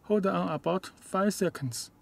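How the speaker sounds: ordinary talk, nothing marked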